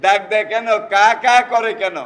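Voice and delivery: put-on curious child: কা কা করে কেন said brightly up; curious child's question. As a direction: play the curious little child, pressing the question. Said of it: "বাচ্চা আবার জিজ্ঞেস করে".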